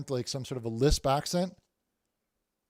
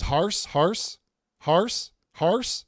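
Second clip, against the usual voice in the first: excited; 5 semitones higher, 5 dB louder, much slower than usual. Real, not acted. Chat keeps typing Harse.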